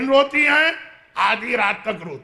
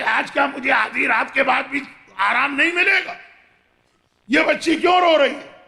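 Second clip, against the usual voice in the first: angry complaint. Acted. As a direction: demand it like a woken tyrant. Yazid woken, complains angrily. (یزید کا جھنجھلا کر پوچھنا)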